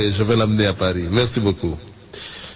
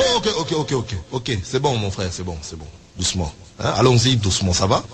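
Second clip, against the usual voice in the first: calming down; 2 semitones lower, faster than usual. Acted. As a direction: ease the interpreter back. Calming the runaway interpreter. (apaiser doucement le frère)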